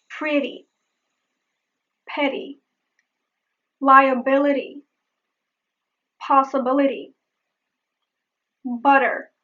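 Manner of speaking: word list with each T as a quick tongue tap; flap T. Shown as a demonstration. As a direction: flap the T in "Pretty", "petty", "liability", "possibility", "butter". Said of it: "I will give you a few examples".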